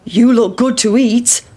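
lightly voiced hungry farmer; the farmer eyeing the pancake; a hint of a greedy farmer. A narrator's reading. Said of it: "said the farmer".

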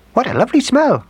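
high mouse voice, exclaiming; mother mouse cry. A narrator's reading. Mother mouse smelling the gingerbread man, high delighted cry. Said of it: "cried the mother mouse".

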